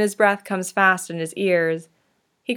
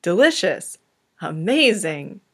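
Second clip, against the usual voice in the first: hammed-up bad Russian accent, swooping; terrible Russian accent. A narrator's reading. Yuri interrupting with his best, terrible Russian accent. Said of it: "He puts on his best Russian accent, which is terrible".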